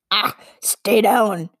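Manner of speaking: slow, hissed "stay down" of a nervous creature; hissed warning. A narrator's reading. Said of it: "he hissed".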